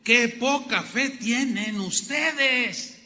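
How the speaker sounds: slow, weighty reproach; slow rebuke. Retold or imitated. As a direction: let each word land. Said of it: "algo muy tremendo". (reproche lento y grave)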